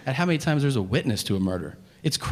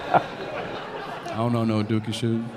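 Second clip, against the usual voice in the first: suspect denial; 3 semitones lower, much slower than usual. Acted. Suspect denies in interrogation.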